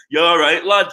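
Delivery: lightly put-on Manchester accent. Mocking a rival footballer's new home, mild Manchester accent. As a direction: greet them with a hint of Mancunian. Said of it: "some Manchester accent".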